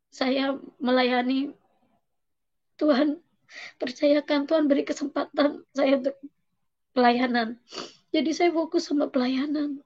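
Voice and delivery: real tearful voice, pitched high; high, emotional confession; choked up. Real, not acted. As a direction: testify through rising tears, halting between phrases. Tearful testimony of God's support.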